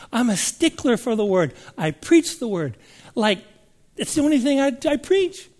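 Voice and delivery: mock indignant defence, climbing high at the end; acted protest. Minister defending his preaching to the Lord, rising protest. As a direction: imitate someone insisting on their record.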